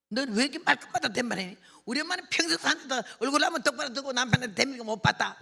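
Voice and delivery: loud, high scolding at his wife; retold shouting. Son yelling at his wife about her talking back, loud scolding. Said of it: "막 소리를 지르니까는요".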